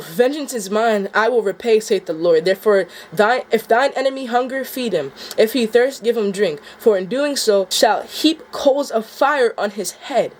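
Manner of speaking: rereading the verse, voice welling with emotion; moved rereading. Acted. Rereading the passage that hits him, near tears. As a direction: let the passage move you as you reread it.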